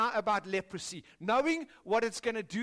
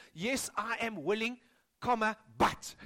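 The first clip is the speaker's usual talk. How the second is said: louder, higher nagging list of conditions; mock conditional Jesus; 5 semitones higher, 5 dB louder than usual. Jesus imagined setting conditions for the leper, hammed-up. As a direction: pile on the demands, mockingly. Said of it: "He doesn't say".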